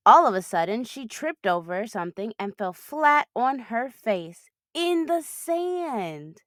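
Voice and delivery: lively storybook reading; animated picture-book narration for kids; reading to children. Acted. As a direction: read it like a bedtime picture book. Reads a picture book aloud.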